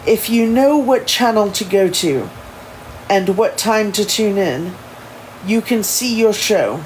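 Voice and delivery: put-on proper English accent; careful, put-on English accent. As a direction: explain formally in an amateur English accent. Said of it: "in his proper English ins-, inspired accent".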